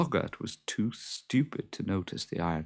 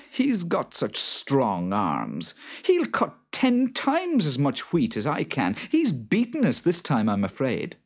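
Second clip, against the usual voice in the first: Jude's voice; 7 semitones higher, 6 dB louder than usual. Acted. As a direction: ask it loud and fretful.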